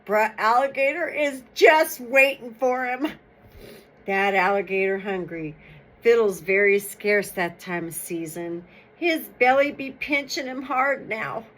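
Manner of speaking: steady storytelling voice, reading to an audience; folk tale reading. Acted. Reader tells the Black History Month folk tale, storytelling. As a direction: tell it like an old folk tale.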